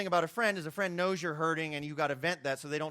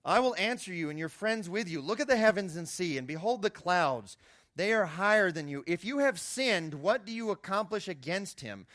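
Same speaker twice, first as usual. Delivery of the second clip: scripture reading; 3 semitones higher than usual. Acted. Preacher reading Elihu's answer to Job, solemn and proclaiming. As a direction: read it out like a preacher declaiming. Reads Elihu's speech aloud.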